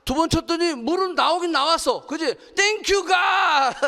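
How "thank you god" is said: high, hammed-up shout of thanks; jubilant thanks. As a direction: cry out in mock rapture. Jubilant cry when water gushes out. (과장되게 외치는 감사)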